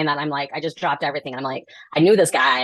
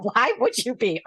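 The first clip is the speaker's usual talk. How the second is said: sarcastic; 6 semitones higher, slower than usual. Retold or imitated. Dry retort about the buyers.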